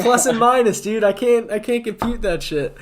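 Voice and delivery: high, loud exasperated complaint; exasperated shout. Retold or imitated. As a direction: complain it loudly, fed up. Retold demand to betting friends.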